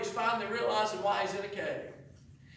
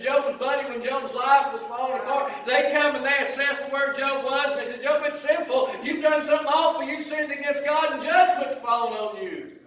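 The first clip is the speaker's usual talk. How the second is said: raised, driving sermon voice; forceful preaching; 3 semitones higher, 5 dB louder than usual. Real, not acted. Preacher retelling how Job's friends judged him, forceful preaching. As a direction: preach it with rising urgency.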